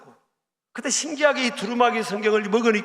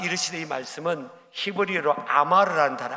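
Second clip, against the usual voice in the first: ordinary talk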